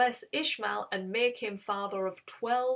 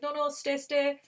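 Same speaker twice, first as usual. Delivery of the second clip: raised, pressing plea of a retold host; eager insisting; 6 semitones higher than usual. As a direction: urge the guests to stay. Host urging visitors to stay.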